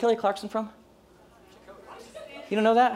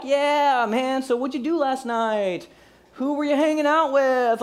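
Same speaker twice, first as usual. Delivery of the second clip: higher, drawn-out chatty questions; feigned chumminess; 5 semitones higher, slower than usual. Acted. Bluffing listener quizzing an unknown caller, feigned chumminess. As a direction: play the over-friendly buddy fishing for clues.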